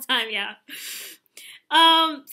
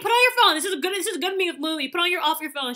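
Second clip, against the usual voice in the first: serious teacher; 3 semitones higher than usual. Retold or imitated. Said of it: "she would, like".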